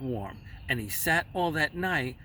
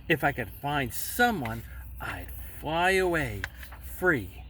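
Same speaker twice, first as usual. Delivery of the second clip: whisper. Acted. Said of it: "If I could find someone to stay on my nest".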